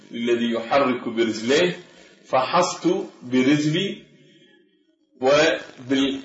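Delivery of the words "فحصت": "فحصت" ending in a plain ت, -tu; original light ت. Shown as a demonstration. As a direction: keep the final ت of "فحصت" light after ص. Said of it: "بالأصل فحصت برجلي". (نطق "فحصت" بتاء مرققة في آخرها)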